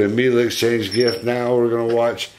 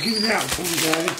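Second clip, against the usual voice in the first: high, pleading dog voice; voicing the dog; 7 semitones higher, faster than usual. Owner voicing the dog asking Daddy in a high voice. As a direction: beg for the toy in a high pretend voice. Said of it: "Mila's like".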